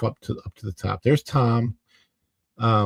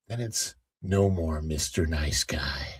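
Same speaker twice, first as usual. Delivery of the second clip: menacing whisper; 10 semitones lower, 7 dB quieter than usual. Pretend. Threatening the rant persona.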